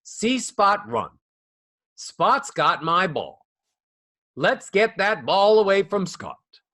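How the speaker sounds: slow sing-song primer voice; flat sing-song reading. Shown as a demonstration. Teacher reading a kids' primer in sing-song. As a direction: read it like a first-grade primer. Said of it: "So we talk like this".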